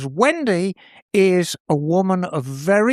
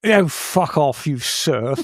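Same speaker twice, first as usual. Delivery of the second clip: posh colonial voice; 5 semitones lower, slower than usual. Pretend. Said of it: "Gone full colonial on us".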